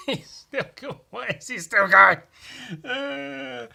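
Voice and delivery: high, mock-incredulous rising outburst; hammed-up disbelief. Friends reacting to the loop.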